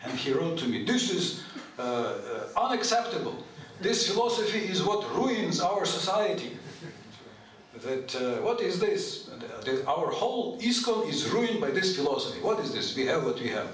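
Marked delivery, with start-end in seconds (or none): 0.8-6.6 mildly indignant, emphatic retelling; heavy attack. Retold or imitated. Letter writer rebuking the speaker over his philosophy, mock-heavy attack. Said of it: "come so heavy upon me". 8.4-13.7 mock indignation with emphatic stresses; heavy attack. Letter writer challenging the speaker's reply, imitated heavy attack. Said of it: "come so heavy upon me".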